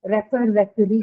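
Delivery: "referee" stressed on the final "ee", after "refer"; "refer, referee" as a contrast, the second ending on a long stressed vowel; stress shift to long vowel. Shown as a demonstration. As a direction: show the stress landing on the end of "referee". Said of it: "usually the stress is on".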